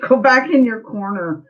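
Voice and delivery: laughing through a teasing repeat. Real, not acted. Medium echoes the friend's joke to cool guy, laughing. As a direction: tease him back while laughing.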